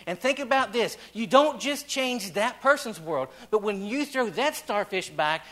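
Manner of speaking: fervent pulpit preaching. Acted. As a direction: drive the point home from the pulpit. Preaching builds to full voice.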